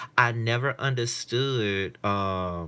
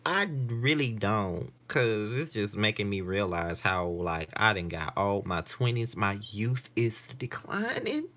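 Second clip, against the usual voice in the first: whining; slower than usual. Real, not acted. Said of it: "whining like a little bitch".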